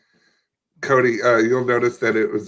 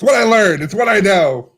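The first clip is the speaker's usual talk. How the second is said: mock tearful wail; 9 semitones higher, 3 dB louder than usual. Refused customer pleading his case, mock tearful wail. Customer character laments, improvised bit.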